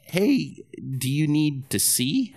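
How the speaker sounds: high, baffled question; incredulous. Retold or imitated. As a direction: sound bewildered at him. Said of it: "he's like".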